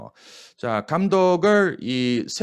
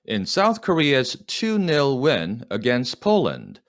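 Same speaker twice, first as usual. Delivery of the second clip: slow dictation; 3 semitones higher, much slower than usual. Shown as a demonstration. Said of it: "여기까지 시작".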